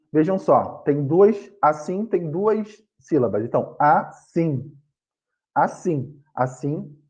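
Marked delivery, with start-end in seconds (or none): 3.8-4.7 "assim" split in two, a - SSIM; teacher sounding out "assim" by syllables; stress on last syllable. Shown as a demonstration. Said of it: "a sílaba assim é a mais forte". 5.5-7.0 "assim" with the stress on "sim"; teacher's example "assim", final syllable stressed; stress on last syllable. Shown as a demonstration. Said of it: "a sílaba assim é a mais forte".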